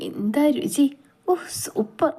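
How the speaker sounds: high-pitched delight at the taste; savouring food. A narrator's reading. Girl relishing rice and ghee in the kitchen, savouring delight. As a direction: relish every mouthful, voice lifted high. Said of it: "ആസ്വദിച്ചിരുന്ന് ഭക്ഷണം കഴിക്കുന്നവളുടെ ശബ്ദം".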